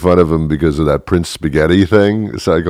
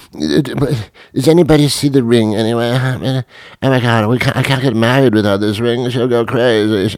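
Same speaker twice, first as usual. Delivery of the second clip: higher, frantic groom yelling at his friend; panicked groom; 6 semitones higher than usual. Acted. Groom panicking at his friend over the dropped ring, higher and frantic. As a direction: panic as the ring rolls away. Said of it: "Harry panicking about bride".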